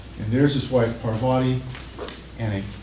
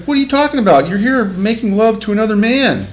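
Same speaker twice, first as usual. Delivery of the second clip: high, loud accusing outburst; mock jealous husband; 9 semitones higher, 7 dB louder than usual. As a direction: hurl the accusation at her, hammed up. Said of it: "He's like".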